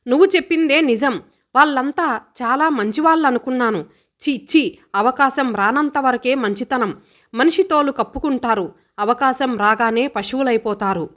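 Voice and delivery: fast, heated and bitter; agitated outburst. Acted. Sister telling brother about the tour, heated and fast. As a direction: rush out the disgust. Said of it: "ఆవేశం తరుముకు వస్తుంటే".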